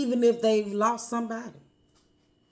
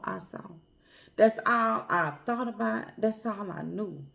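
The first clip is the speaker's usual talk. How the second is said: emotional; 2 semitones higher than usual. Real, not acted. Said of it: "I might get a little emotional".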